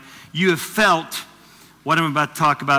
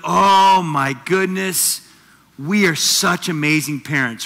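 smug parent; 6 dB louder, slower than usual. Retold or imitated. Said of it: "You're like".

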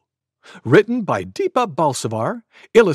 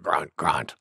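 boar grunt; 11 semitones lower, 6 dB quieter than usual. Acted.

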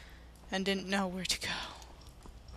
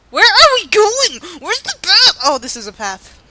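high lost-character voice; 10 semitones higher, 16 dB louder than usual. Acted. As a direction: play the lost heroine calling out.

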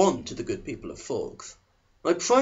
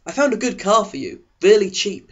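announcing dad; 6 semitones higher, 6 dB louder than usual. A narrator's reading. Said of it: "he announced".

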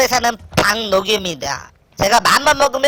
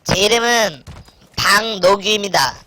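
helium voice; 5 semitones lower than usual. Acted. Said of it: "헬륨 소리 나는데".

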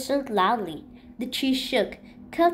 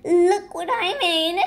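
a proud, louder little shout; proud exclaim; 5 semitones higher, 5 dB louder than usual. A narrator's reading. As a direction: show off the cake proudly. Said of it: "Chunk beamed with pride".

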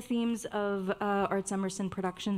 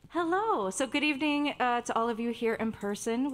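dramatic microphone voice; 3 semitones higher than usual. Shown as a demonstration. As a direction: boom it out like a stage host. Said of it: "my best dramatic, uh, microphone voice".

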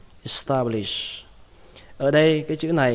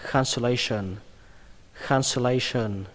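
"cancellation" run together quickly; fast take. Shown as a demonstration. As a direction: say "cancellation" at natural speed. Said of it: "Đọc nhanh là".

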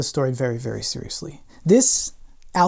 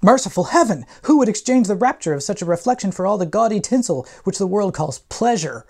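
raised, loud mock-rapturous exclamation; dramatic reading; 4 semitones higher, 4 dB louder than usual. Shown as a demonstration. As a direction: ham up the sentimental outcry. Dramatic reading of novel quote.

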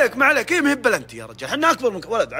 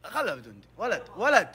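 ordinary talk

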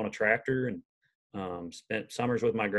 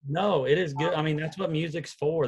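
tearful; 7 semitones higher than usual. Real, not acted. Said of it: "I got tears in my eyes right now".

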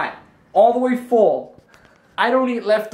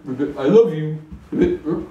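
frog voice; 3 semitones lower, faster than usual. Pretend. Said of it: "Are we doing frog hugs?".

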